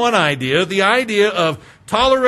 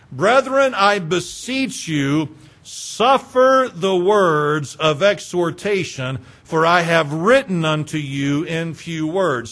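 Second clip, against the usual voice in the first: solemn scripture reading; 3 semitones lower, slower than usual. Acted.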